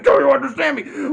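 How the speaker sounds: villain losing his temper at his brother; shouted repeat. Retold or imitated. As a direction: scream the question the second time. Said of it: "I said".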